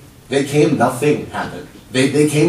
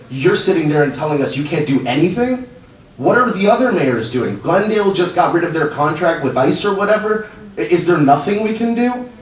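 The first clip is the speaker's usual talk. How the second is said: distressed pleading; 6 semitones higher than usual. Real, not acted. Begging the council for help, high and urgent. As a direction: plead with them, pitch rising. Desperate plea to city council.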